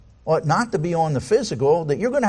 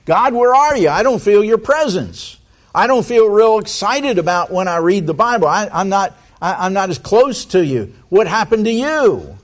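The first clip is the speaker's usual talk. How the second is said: raised, louder pleading to the Lord; mock despairing complaint; 5 semitones higher, 4 dB louder than usual. A doubting believer complaining to the Lord, mock despairing. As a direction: voice a believer whining at God. Voicing a believer blaming God.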